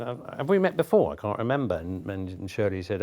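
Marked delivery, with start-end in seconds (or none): 0.0-1.8 a light, higher imitation of Maggie Smith's vague grandeur; lightly voiced grande dame, puzzled. Maggie Smith greets Shirley MacLaine in the hallway, lightly imitated. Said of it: "Maggie said".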